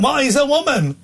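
high, challenging jeer at the start; imitating a heckler jeering on the tube; mocking heckler. Stranger on the tube jeers at the presenter, mimicked mock challenge. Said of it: "Right, like this".

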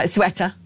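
Ceuta said SWETT-uh; Ceuta run into two beats, SWETT-uh; variant pronunciation. Shown as a demonstration. Trying rival pronunciations in turn.

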